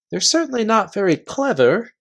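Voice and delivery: Eustace, sneering. Acted. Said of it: "said Eustace".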